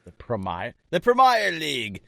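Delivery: "Premier" with an EYE sound in the middle; corrected "Premier" pronunciation. Shown as a demonstration. Co-host trying the viewer's correction, "Premier" said pre-MY-er. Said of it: "how to pronounce Premier".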